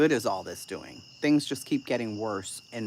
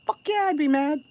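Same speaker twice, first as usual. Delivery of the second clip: emphatic outburst; 8 dB louder than usual. Real, not acted.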